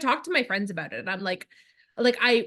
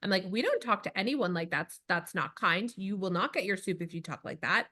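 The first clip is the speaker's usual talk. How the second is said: 1 stern mom; 2 semitones lower, 5 dB quieter than usual. Retold or imitated. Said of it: "that's what I say".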